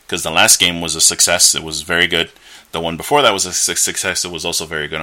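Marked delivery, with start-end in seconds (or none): 2.7-4.2 tripping over the word; stuttering. Real, not acted. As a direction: stammer on success. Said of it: "I'm stuttering for some reason".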